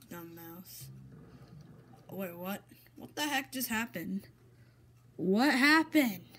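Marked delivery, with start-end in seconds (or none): 5.2-6.3 loud, slow outraged shout. Real, not acted. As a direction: yell it at the screen in disbelief. Game mishap, outraged.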